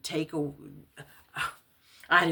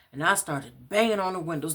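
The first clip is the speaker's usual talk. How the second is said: plain reading voice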